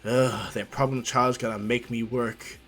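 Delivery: weary grumble. Acted. Weary teacher grumbles about student.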